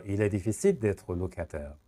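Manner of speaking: slow variant; slow alternative. Shown as a demonstration. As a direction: give the il est version, slowly. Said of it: "یا".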